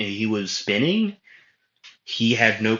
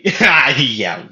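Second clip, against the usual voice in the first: shouted laugh; 2 semitones higher, 6 dB louder than usual. Acted. Yami brushing off warning.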